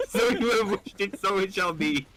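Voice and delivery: high, laughing genie pronouncement; can't hold it together as the genie; cracking up mid-joke; laughing through line. Real, not acted. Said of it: "I already know the punchline".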